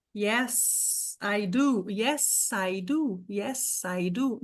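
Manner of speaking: yes said with a crisp S, not Z, repeated; English drill. Shown as a demonstration. Teacher drilling yes, I do for the class. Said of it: "não pode reduzir pra um som de Z".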